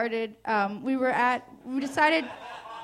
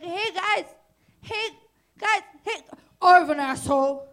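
high calls building to a loud plea; calling for attention; 6 semitones higher, 7 dB louder than usual. Retold or imitated. Handcuffed girl calling to friends who ignore her, mock plea. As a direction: try to get noticed, higher and then louder.

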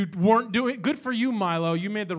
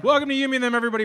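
1 showy welcome; 6 semitones higher, 4 dB louder, much faster than usual. Acted. Host opens the show.

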